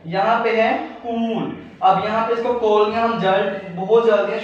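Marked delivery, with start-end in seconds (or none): 1.0-1.5 कूल with a long held oo; long vowel. Shown as a demonstration. Teacher showing students the long oo in कूल. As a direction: draw out the oo in कूल. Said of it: "जोर देना पड़ रहा है तो ये long vowel sound है".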